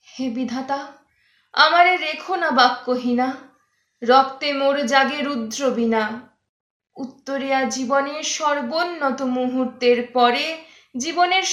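hammy stage actor recitation; poem recitation. Acted. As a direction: declaim the poem with grand swells. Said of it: "একবার পড়ে শোনা".

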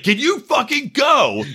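high, slow furious demand; raging brother-in-law. Retold or imitated. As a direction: snap it out like a raging drunk. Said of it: "He's like".

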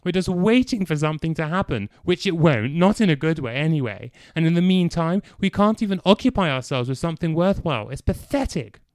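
crescendoing with a tremor. Acted. Clive rants about the blackout, shouting with a tremor. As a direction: rage barely held back. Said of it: "Clive's voice began to crescendo... tremor".

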